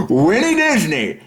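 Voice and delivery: slow, high name squeezed out through real laughter; giggling over the name; laughing. Real, not acted. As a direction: say it while cracking up. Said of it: "if you can't say something without laughing".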